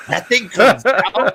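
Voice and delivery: high, slow puppet voice; imitated high-pitched puppet; Peanut. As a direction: squeal it slowly like a startled puppet. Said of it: "And then Peanut goes".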